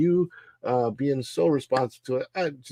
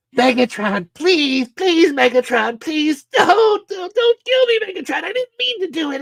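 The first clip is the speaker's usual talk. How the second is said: bad robot character voice, much higher pitched; 14 semitones higher, 4 dB louder than usual. Running through voices from the Transformers, awful Starscream impression. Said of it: "Awful Starscream".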